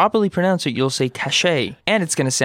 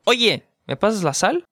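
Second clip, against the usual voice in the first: attention-getting oye; 6 semitones higher, faster than usual. Shown as a demonstration. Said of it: "It's like... when you say".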